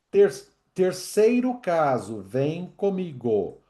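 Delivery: ordinary talk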